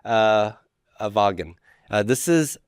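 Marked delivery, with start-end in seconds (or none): 1.0-1.5 "Wagen" as "VAH-gen"; German W. Shown as a demonstration. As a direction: say "Wagen" with a V sound. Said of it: "German language pronounces W's like a V".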